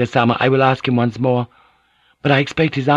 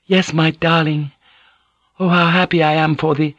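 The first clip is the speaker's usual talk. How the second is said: higher, impulsive lover's reply; 8 semitones higher than usual. A narrator's reading. Woman accepting her lover's evening visit, impulsive. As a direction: answer your darling on impulse, pitched up. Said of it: "she'd said impulsively".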